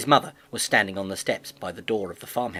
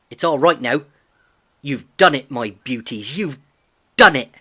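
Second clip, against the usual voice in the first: put-on young farm lad, proud and eager; a lightly voiced excited boy praising his horse; hint of a delighted teenage farm boy; Albert; 2 semitones higher, 8 dB louder than usual. A narrator's reading.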